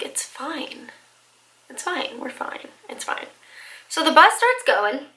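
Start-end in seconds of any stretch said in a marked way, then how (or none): 0.0-3.3 soft murmured it's fine, talking herself down; hushed, telling herself it's fine; quiet self-reassurance. Retold or imitated. Alone on the wrong bus, soothing herself quietly.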